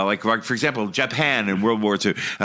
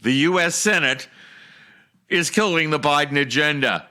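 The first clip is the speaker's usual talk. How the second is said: lightly mock newscaster delivery; news read. Host delivers the Washington news update, mild anchor style.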